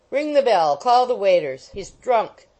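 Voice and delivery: loud furious roar. Acted. Wardle shouting for waiters to seize the boy, loud roar. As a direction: bellow orders across the room. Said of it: "roared old Wardle passionately".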